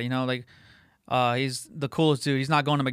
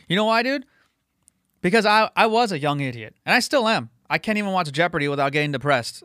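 emotional outburst; 3 semitones higher, 3 dB louder than usual. Real, not acted. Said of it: "I get emotional".

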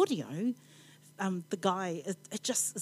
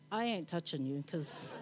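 laughing; 3 semitones lower, 5 dB quieter than usual. Real, not acted. Joke about sleepers falling off seats.

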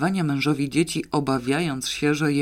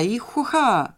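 ecstatic yell; 8 semitones higher, slower than usual. Acted. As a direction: holler it as you leap into a dance. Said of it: "wrzeszczał i hopsasa".

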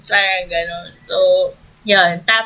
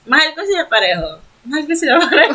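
giggly repeat; 6 semitones higher, much faster than usual. Pretend. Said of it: "Sige, ulit-ulitin mo".

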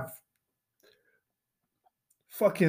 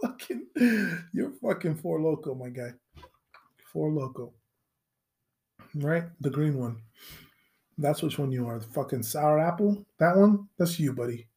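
quiet mocking aside; 4 semitones lower, 6 dB quieter than usual.

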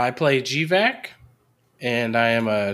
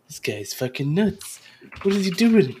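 alarmed; 6 semitones higher than usual. Acted. Character complains about creepy ghost.

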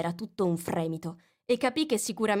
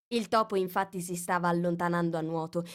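plain reading voice

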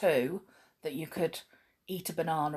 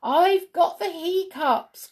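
put-on higher, slow sing-song girl; little girl, sing-song; 10 semitones higher, 5 dB louder, slower than usual. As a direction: cry it out gleefully, slowly. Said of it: "cried Sheila".

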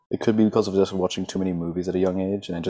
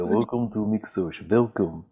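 put-on lightly Russian-accented "Welcome to Mixosh"; a touch of Russian accent; mild Russian-accent welcome. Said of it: "I used to do that accent".

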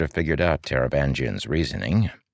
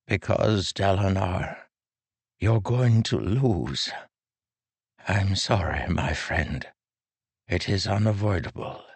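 put-on lilting elderly voice, higher; frail old man; 5 semitones higher than usual. A narrator's reading. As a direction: speak as a gentle aged king. Taravangian's grim verdict.

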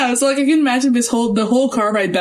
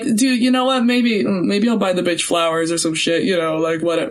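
lazy dismissive dude voice, a bit lower; bro voice; 4 semitones lower than usual. Retold or imitated. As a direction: toss it off like a careless bro. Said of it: "This is my bro impression".

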